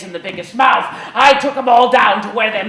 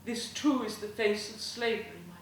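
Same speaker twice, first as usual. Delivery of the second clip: impassioned woman orator; 2 semitones higher than usual. Acted. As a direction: move the mob from plea to grief. Woman's speech to crowd.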